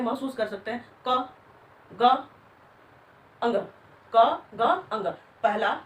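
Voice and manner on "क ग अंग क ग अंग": क, ग said singly with little breath; unaspirated demo. Shown as a demonstration. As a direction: say क, ग, अंग as separate light letter sounds. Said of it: "उच्चारण करके भी मन-, अनुभव कर सकते हैं".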